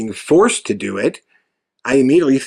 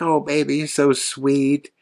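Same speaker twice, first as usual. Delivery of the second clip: put-on amateur Southern accent, slowing on the endearment; 4 dB quieter than usual. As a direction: attempt a sweet, soft Southern woman's accent. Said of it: "my shitty attempt at a Southern accent".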